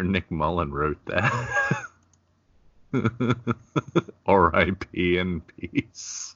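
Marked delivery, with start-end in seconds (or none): 4.3-6.4 slow mocking repeat. Shown as a demonstration. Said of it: "repeat of headline".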